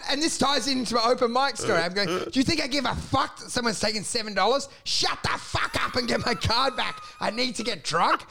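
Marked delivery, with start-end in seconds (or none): 2.1-7.0 pitched-up angry rant; mock-furious phone tirade; retold yelling. 7.2-8.2 comic desperate demand building to a wail; mock-furious, stretched final word; retold yelling.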